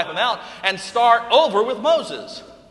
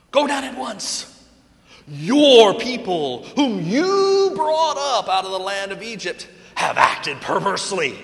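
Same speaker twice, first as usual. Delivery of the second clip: angry God; 2 semitones higher, 6 dB louder than usual. Acted. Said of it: "The Lord said to Moses".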